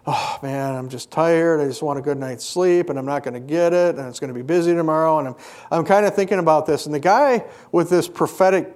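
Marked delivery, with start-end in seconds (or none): 0.1-5.2 retold grumbling. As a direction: grumble to yourself, exhausted after the service. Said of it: "kinda just grumbling to myself".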